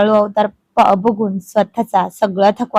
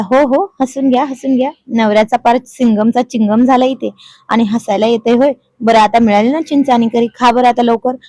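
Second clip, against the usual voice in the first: sulking; 2 semitones higher, 4 dB louder than usual. Acted. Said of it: "तोंड फुगवून तो म्हणाला".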